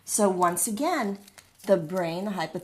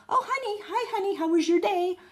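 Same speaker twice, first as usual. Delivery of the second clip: sweet greeting; 12 semitones higher, faster than usual. Retold or imitated.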